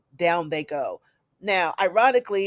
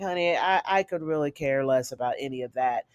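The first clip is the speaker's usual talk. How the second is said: imitating an unimpressed woman, sinking lower; 4 semitones lower than usual. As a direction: act out mild indifference, pitch dropping off. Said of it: "Tana seems unimpressed".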